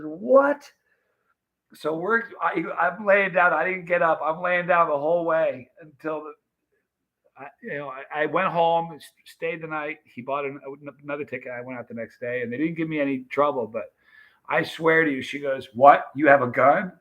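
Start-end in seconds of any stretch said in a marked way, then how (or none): 0.0-0.7 high, rising "what?"; shocked disbelief. Retold or imitated. Friend hears about the gun mix-up, shocked. 15.7-16.9 louder, rising startled question; mock alarm. Airline agent mishears a remark about a gun, alarmed.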